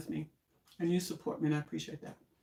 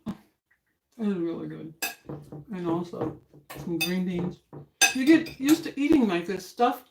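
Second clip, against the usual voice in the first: talking while chewing; words round a bite of potato; mouth full. Real, not acted. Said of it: "I'm playing with my mouth full".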